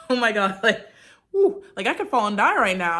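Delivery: amused daredevil take; giddy thrill. Pretend. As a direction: play the fall like a fun joke. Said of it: "I was just more like".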